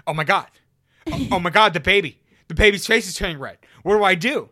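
loud, high panicked mother; panicked mom. Retold or imitated. Mom panicking over the baby, loud frantic shriek. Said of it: "My mom immediately goes".

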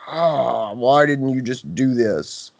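slow, drawn-out groan of mild frustration; acted exasperation. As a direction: act out a weary reproach, dragging the words. Vet voicing exasperation at pet owners.

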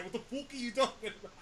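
fast, laughing mock Irish take on fuck; mock Irish accent. Host imitates how the Irish guest says fuck, in a laughing mock Irish accent. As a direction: toss off a playful Irish impression. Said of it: "That's how you guys say fuck, right?".

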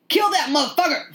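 high-pitched, laughing battle cry; mock screaming. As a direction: imitate a viewer egging on the kill. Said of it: "you just started screaming".

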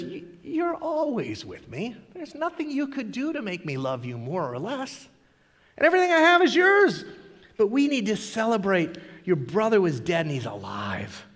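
lightly voiced father, quiet and kind; tender father. Father gently reassures his angry older son, softly tender. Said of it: "With so much love and compassion".

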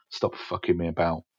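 put-on teacher's blunt Welsh accent. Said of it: "saying in his, his Welsh accent".

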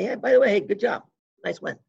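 lightly voiced grudging coach; offhand praise. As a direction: toss off the compliment. Gable's offhand praise retold.

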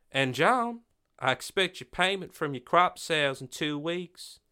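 a hint of a high, sly villain; lightly voiced rich bully, mock polite; smug landowner. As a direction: landlord dismissing the sheriff with smug courtesy. Quincy voiced in story.

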